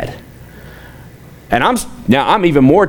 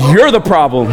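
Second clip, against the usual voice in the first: retold angry rant. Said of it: "I just lost it on him".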